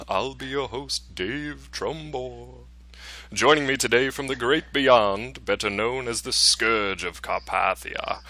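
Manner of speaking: slow, drawn-out spooky host voice; lightly hammed-up haunted host. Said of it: "I gotta put my spooky voice back on".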